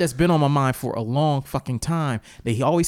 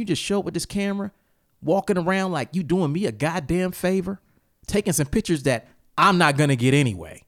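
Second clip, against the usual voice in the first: retold angry rant; 5 semitones higher than usual. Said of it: "I said".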